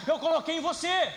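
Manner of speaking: preacher booming God's words; God's voice, proclaimed. Acted. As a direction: voice God's promise as a shout. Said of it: "ele tá falando assim".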